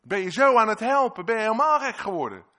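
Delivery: furious high shout at the servant; indignant yelling, voice way up; angry shouting. Acted. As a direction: bellow the scolding in outrage. Angry rebuke voiced in sermon.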